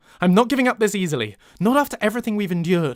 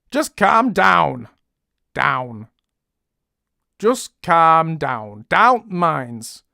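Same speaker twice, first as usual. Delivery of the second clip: slow northern English try-out; deliberate northern English delivery; northern accent; 4 dB louder, much slower than usual. Shown as a demonstration. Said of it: "How do you say down in northern?".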